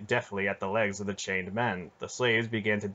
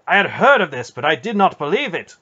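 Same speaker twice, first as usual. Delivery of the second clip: outraged; 8 semitones higher, 11 dB louder than usual. A narrator's reading. Knight outraged at enslaved countryman.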